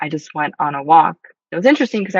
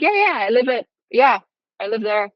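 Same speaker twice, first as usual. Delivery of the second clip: playing along; 5 semitones higher than usual. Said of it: "played along with his story".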